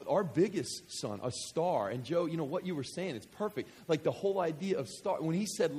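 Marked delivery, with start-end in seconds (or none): none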